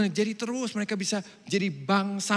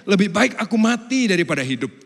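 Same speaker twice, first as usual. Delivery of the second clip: despairing Jonah; 4 semitones higher, 7 dB louder than usual. Retold or imitated.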